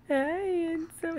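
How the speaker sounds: high, soft, drawn-out greeting. Real, not acted. Mom greets her baby, cooing.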